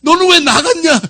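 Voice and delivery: high-pitched retold telling-off; mock scolding. Father retelling how he told off his son, high mock scolding. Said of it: "제가 막 혼내는 거예요".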